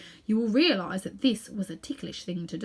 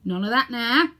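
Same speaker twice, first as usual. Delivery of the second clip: sternly; 2 semitones higher, 5 dB louder than usual. Acted. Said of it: "said the policeman sternly".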